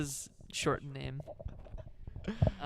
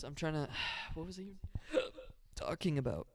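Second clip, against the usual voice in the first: hiccups; 3 semitones higher, 4 dB quieter, faster than usual. Real, not acted. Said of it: "I have the hiccups so bad".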